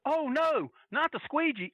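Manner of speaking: high-pitched hammed-up dread; imitated cry of alarm; mock terror. Acting out wrestler's mock terror.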